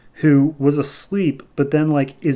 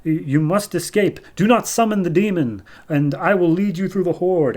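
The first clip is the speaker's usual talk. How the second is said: higher-pitched, urgent wizard's warning; a hint of a pleading sorcerer, pitched up; lightly voiced Merlin; 5 semitones higher than usual. Disguised Queen urging Jason to escape, lightly acted urgency. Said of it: "shape-shifting into Merlin".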